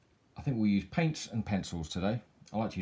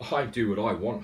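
huffy; 3 semitones higher, 5 dB louder than usual. Acted. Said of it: "huffed Bear".

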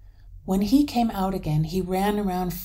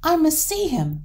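high, loud and eager; excited Hans, voice leaping up; eager exclamation; 10 semitones higher, 7 dB louder than usual. A narrator's reading. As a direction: exclaim it, bursting to go and look. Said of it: "exclaimed Hans".

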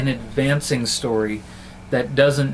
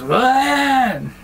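much higher, tiny squeaky creature shout; tiny baby Groot voice; 11 semitones higher, 4 dB louder than usual. Retold or imitated. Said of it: "little tiny Vin Diesel's little baby Groot voice".

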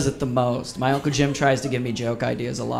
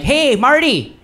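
Uncle Jim; 5 semitones higher than usual. Retold or imitated. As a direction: call out Martin over and over like a pushy Midwestern uncle. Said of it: "he's just like".

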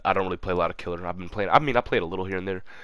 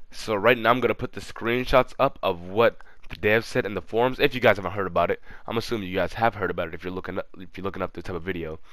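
nasal, tissue stuffed in nose; with a nosebleed. Real, not acted. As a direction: talk through a bleeding nose. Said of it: "it's because my nose is bleeding, so I have tissue on my nose".

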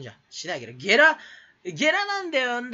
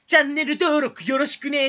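mock sweet outro; 6 semitones higher, 5 dB louder than usual. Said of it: "ナイフで刺してる感じ".

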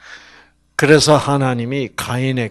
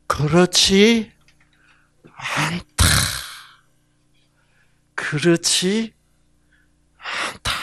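God's slow reply; 4 semitones higher, slower than usual. Acted. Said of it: "하나님이 그렇지 않다고 말씀하실 때".

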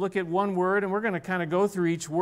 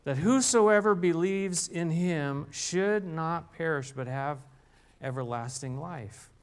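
scripture reading. Shown as a demonstration. Preacher reading John 3:16 aloud to the congregation, measured. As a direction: read it out as holy scripture. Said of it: "let me just read it to you".

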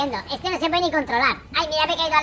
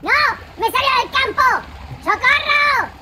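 panicked; 5 semitones higher, slower than usual. Real, not acted. Car out of the field.

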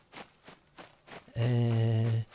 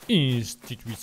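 French-accented Portuguese; 6 semitones lower than usual. Shown as a demonstration. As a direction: say "Instituição" like a French speaker. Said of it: "Oui, je parle français". ("Instituição" com sotaque francês)

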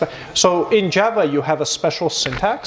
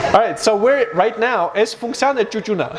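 laughing; 5 semitones higher than usual. Real, not acted. Laughing through the explanation.

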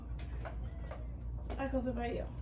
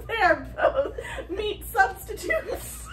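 laughing; 5 semitones higher, much slower than usual. Real, not acted. Punchline, laughing with water.

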